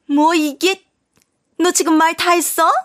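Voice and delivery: outraged mother-in-law. Acted. Mother-in-law snapping at her former daughter-in-law, outraged. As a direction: bristle at the daughter-in-law's cheek.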